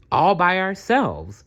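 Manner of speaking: rising high into a breathy whisper at the end; delighted secret freedom; excited Dazzle. Acted. Dazzle tells Maya about tomorrow, rising to an excited whisper.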